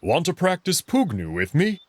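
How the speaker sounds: playful and high, tempting; grinning invitation. Acted. Amicus coaxes his friend into sparring, grinning and playful. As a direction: grin through the offer of a sparring match. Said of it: "then grins".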